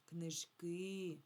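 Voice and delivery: "Книжки" with the final и held; stress on second syllable. Shown as a demonstration. Teacher confirming the plural's stress, second syllable stressed in "Книжки". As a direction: lean on the last и of "Книжки". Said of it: "на другий склад падає наголос".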